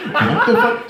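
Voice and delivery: high, loud shocked cry; mock shock. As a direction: imitate the group's stunned reaction. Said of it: "And we're like".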